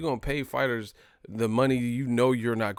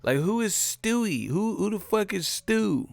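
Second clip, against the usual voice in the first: incredulous; 8 semitones higher than usual. Pretend. Repeated mock disbelief.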